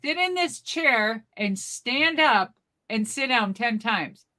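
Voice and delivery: slow echo of the instructions; unimpressed repeating. Retold or imitated. Granny repeating the test back to staff, unimpressed.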